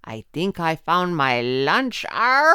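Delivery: coyote growling over lunch; trickster tale voices. Acted. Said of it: "Coyote said to Conejito".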